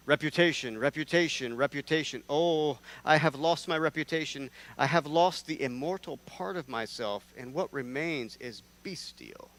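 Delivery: theatrical recitation. Acted. Dramatic Shakespeare recitation.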